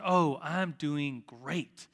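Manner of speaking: slow, drawn-out reply with a lingering "great"; imitating a contented friend. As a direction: stretch it out as if suspiciously content. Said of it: "the way he said it was just like".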